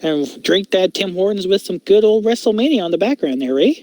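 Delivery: playful Canadian hoser impression, mocking the stereotype; mock Canadian accent. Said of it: "Can you imagine if Edge spoke like that?".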